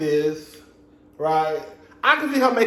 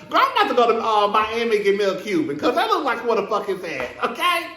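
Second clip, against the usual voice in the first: high, laughing excited gush; giddy excited; 7 semitones higher than usual. Real, not acted. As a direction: gush like a smitten fan. Gushing over cute fiance.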